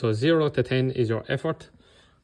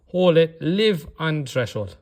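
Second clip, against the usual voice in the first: coach's push; 3 semitones higher, 3 dB louder, slower than usual. Shown as a demonstration. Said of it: "coach pushing through the set".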